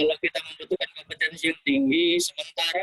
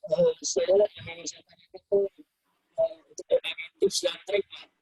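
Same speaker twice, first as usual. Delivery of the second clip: garbled, cutting-out audio; choppy connection; 3 semitones lower than usual. Real, not acted. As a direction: voice breaking up over a bad line. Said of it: "suaranya putus-putus".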